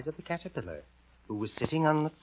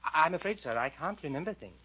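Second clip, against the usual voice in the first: high, faltering apology; Alice's hesitant voice; 7 semitones higher than usual. Acted. Storyteller as Alice confessing to the caterpillar, hesitant and high. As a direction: begin haltingly, polite and meek. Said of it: "Then Alice said".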